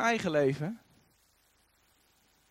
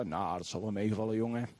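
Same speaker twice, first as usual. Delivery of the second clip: calm reassurance; 9 semitones lower, 7 dB quieter than usual. Acted. Elisha calming his panicking servant, low and reassuring. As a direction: lower and softer, unbothered.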